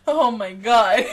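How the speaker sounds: laughing through it, drawn out. Retold or imitated. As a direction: giggle out the words. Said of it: "you'd be like".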